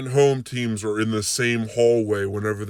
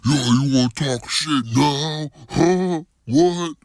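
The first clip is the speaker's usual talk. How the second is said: confrontational taunting; 4 semitones higher, slower than usual. Retold or imitated. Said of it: "I'm talking like".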